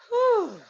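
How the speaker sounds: high, loud falling whew; relieved whew. Shown as a demonstration. Teacher modelling release after tensing, relieved whew. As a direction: let all the tension go in one breath.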